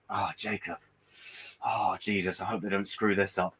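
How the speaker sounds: low, soft fretting murmur; the nagging worry at the back of your mind; worried inner voice. Retold or imitated. His inner doubt about Marvel, soft low fretting. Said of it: "a voice in the back of my head now that's going".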